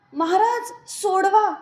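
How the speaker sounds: loud, high plea cried out in pain; anguished cry. A narrator's reading. Devotee in pain begs Maharaj for release, anguished cry. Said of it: "मी कळवळून ओरडले".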